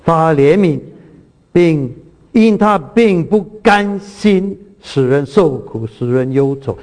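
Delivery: slow, solemn reading of the verse; scripture reading. Acted. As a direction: lay each phrase down slowly and reverently. Reads scripture slowly. (缓慢庄重地朗读经文)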